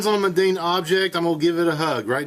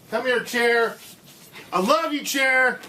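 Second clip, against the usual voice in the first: mock lover; 7 semitones higher, slower than usual. Romancing a chair as a joke.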